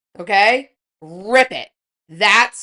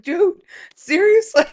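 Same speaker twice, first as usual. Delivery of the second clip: exasperated; 8 semitones higher than usual. Retold or imitated. Retold exasperated reply.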